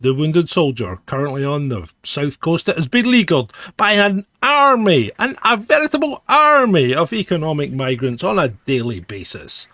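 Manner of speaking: show announcer. Acted. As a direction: announce the episode like a pompous presenter. Hosts introduce the show.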